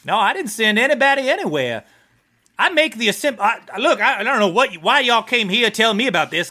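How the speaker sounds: lightly voiced, exasperated supplier character; defensive war profiteer. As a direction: protest your neutrality in a slightly lifted voice. Amberiel defends their trade.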